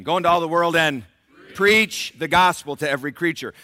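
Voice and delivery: loud, high preacher's shout; heralding proclamation. Shown as a demonstration. Preacher showing the congregation how to preach, heralding shout. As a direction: declare it boldly at full voice. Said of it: "we're gonna try that again".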